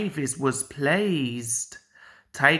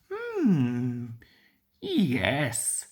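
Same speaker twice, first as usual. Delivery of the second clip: thoughtful; 4 semitones lower than usual. A narrator's reading. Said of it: "said Toby thoughtfully".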